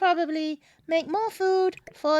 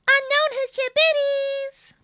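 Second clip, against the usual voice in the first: owl voice; 6 semitones higher than usual. Acted. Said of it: "this voice is specifically Joe Woe's fault".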